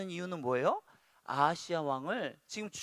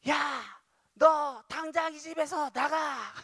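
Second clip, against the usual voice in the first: high, drawn-out furious yell; acted parental outburst; angry parent's shout; 9 semitones higher, 6 dB louder, slower than usual. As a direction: shout them out of the house, slowly and forcefully. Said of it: "아이에게 소리를 칩니다".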